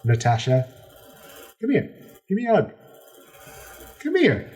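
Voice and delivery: a high, eager king overjoyed to see her; gushing pirate king. Acted. Pirate king welcoming back his lost love, high and gushing. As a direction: beam out the welcome like an old flame.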